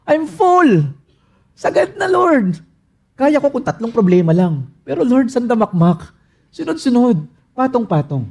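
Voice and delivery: high, breaking cry of being full of troubles; overwhelmed plea. Acted. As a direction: say "full" as if at the limit. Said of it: "That's the word".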